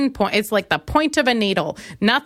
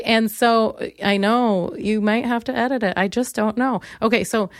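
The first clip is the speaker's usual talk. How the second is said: ordinary talk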